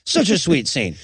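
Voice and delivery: sarcastic deadpan; flat sarcastic. Shown as a demonstration. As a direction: say it dry and mocking. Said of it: "making me do the same".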